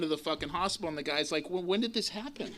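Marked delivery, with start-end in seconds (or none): 1.5-2.5 laughing mock doctor. Mocking the hospital doctor's question.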